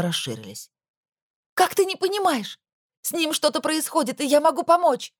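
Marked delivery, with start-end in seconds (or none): 1.5-5.1 much higher, pleading outcry; desperate outburst. Acted. Daughter pleading with her mother, high outburst. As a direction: make her finally understand. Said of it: "выкрикнула я".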